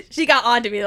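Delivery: laughing through the words; amused, half-laughing retelling. Real, not acted. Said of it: "She, she got on to me".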